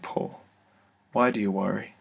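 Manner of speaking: a loving voice gently asking; sweet gentle voice. Retold or imitated. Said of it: "it was the sweetest voice".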